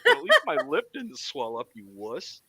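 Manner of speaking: taunting through laughter; laughing taunt. Retold or imitated. Teasing the friend, laughing taunt. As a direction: rub it in, laughing. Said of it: "I'm like".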